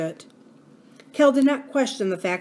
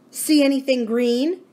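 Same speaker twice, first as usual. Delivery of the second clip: Abra's voice; 6 semitones higher, 4 dB louder than usual. A narrator's reading. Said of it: "Abra couldn't stand it".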